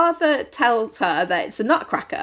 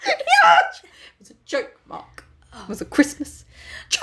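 high slow laughing plea; 3 semitones higher, slower than usual. Retold or imitated. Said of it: "Peep Show Christmas special".

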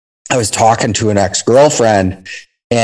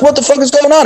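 freaking out; 12 semitones higher, faster than usual. Retold or imitated. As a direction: play the squad leader losing it on the roof. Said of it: "the squad leader's freaking out".

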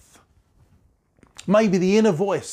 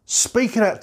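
higher and ringing out loud; loud call; 6 semitones higher than usual. Shown as a demonstration. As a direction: proclaim it boldly to the room.

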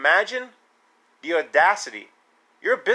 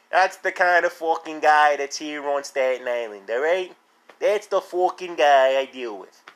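mock Staten Island accent. Mocking Staten Island accent carries on.

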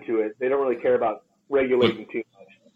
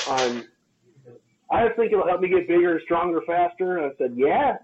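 lecturing; 3 semitones higher than usual. Retold or imitated. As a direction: talk down to him like a fed-up coach.

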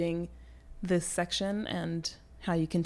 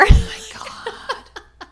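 high, loud laughing gasp, slow; real delighted laughing shriek; laughing exclamation; 11 dB louder, much slower than usual. Real, not acted. Reacts laughing to dramatic reading idea.

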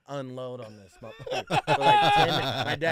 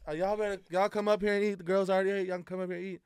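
put-on aunt calling kids to eat; 7 semitones higher, faster than usual. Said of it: "She goes".

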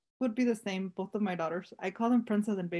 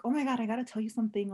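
breathless excitement; faster than usual. Retold or imitated. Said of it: "Just because, like, in the moment".

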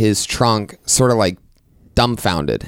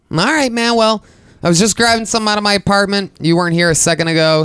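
high, fast defensive whine; mock defensive pleading; 8 semitones higher, faster than usual. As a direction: hurry to justify yourself. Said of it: "I go".

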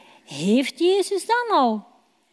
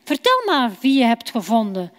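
a bit curious; faster than usual. Acted. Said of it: "zegt hij toch een beetje nieuwsgierig".

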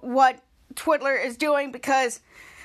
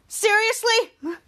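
higher, slow disbelief; exasperated seriously; 6 semitones higher, much slower than usual. Retold or imitated. Charlotte fed up with the boys, exasperated. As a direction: drag it out in disbelief. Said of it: "Charlotte saying".

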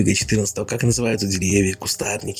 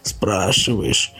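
very slow, moaning pretend question; mock groan; much slower than usual. Laban keeps faking illness, a very slow moaning question. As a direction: stretch it out like it hurts to speak. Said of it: "опять застонал Лабан".

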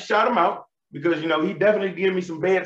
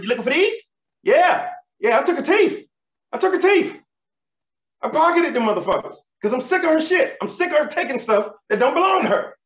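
triumphant gloating; 7 semitones higher than usual. Retold or imitated. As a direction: rub her nose in it. Confronting grandma with her teeth.

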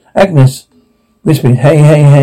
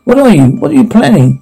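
panicked; 6 semitones higher than usual. Acted. Panicked captive.

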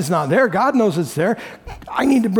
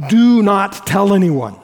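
firm, slow, louder command; stern warning; 5 dB louder, slower than usual. Acted. Jesus sternly telling the healed leper to keep silent. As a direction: lay down the order slowly. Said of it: "Jesus says sternly".

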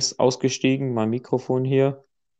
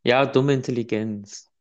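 emotionless. Real, not acted. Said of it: "bitte mit mehr Emotion".

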